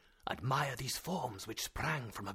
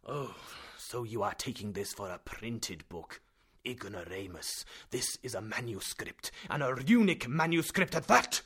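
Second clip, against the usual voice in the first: scornful professor; 10 dB louder than usual. A narrator's reading. Professor berating nephew Axel, loud and scornful. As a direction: berate the ignorant boy.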